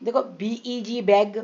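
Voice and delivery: drawn-out spelling of बीईजी into बैग; slow spelled out. Shown as a demonstration. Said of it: "बहुत simple है". (धीरे-धीरे बीईजी बोलकर बैग)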